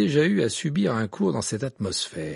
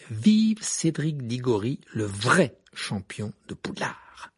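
slogan read out; 2 semitones lower, slower than usual. A narrator's reading. Narrator reads out badge slogan.

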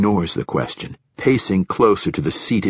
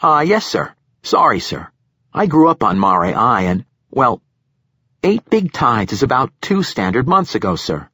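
higher-pitched junior officer answering up to a superior; eager young lieutenant; 5 semitones higher, 4 dB louder than usual. Acted. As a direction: voice an earnest young lieutenant reporting in.

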